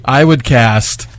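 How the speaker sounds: put-on little girl voice. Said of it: "I had to say it in my little girl voice".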